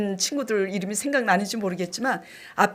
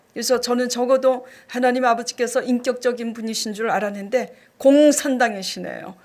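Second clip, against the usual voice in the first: usual speaking voice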